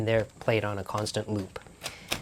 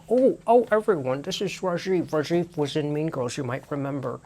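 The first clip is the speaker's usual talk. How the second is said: excited greeting; 3 semitones higher than usual. Retold or imitated. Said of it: "Lauren was like".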